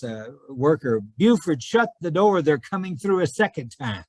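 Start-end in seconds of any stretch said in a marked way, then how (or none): 1.2-4.0 a raised mock yell across the house; retold yell. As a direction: call out to the worker, half-shouting. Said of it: "Sam Rayburn was yelling at his".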